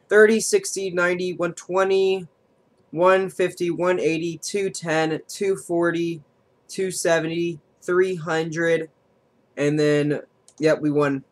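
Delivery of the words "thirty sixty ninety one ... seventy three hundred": higher, eager counting; excited counting. Real, not acted. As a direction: count up with rising hope. Counting damage toward the win.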